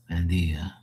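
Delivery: "Bendia" ending in dee-ah, no g; g left silent. Shown as a demonstration. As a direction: say "Bendia" with the g dropped. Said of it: "you say bendia".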